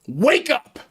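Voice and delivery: mock shout.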